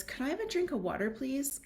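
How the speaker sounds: put-on high, quick sing-song of a well-mannered kid; polite child's request. Shown as a demonstration. Parent modelling the nice way for a whiny kid to ask, high and quick. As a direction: chirp it out like a sweet, polite child. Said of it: "I think what you meant to say was".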